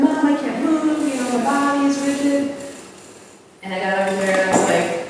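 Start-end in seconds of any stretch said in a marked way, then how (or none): 0.0-2.5 panicked call. Retold or imitated. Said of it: "she was calling me from across the cabin".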